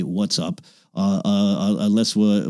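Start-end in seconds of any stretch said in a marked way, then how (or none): 0.0-0.6 "What's up?" dropped low and soft, like an embarrassed aside; quiet aside. Shown as a demonstration. An older man softly trying out slang, quiet. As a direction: mutter "What's up?" under the breath. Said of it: "A person of my age normally doesn't say".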